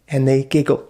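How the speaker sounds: mock girlish giggle; giggling. Shown as a demonstration. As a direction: giggle like a shy schoolgirl. Teacher demos girls giggling.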